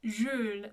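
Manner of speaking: French Jules, rounded front u; careful French name demo; French pronunciation. Shown as a demonstration. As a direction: say Jules with lips rounded for U, tongue at E. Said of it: "that E in the mouth, U with the lips".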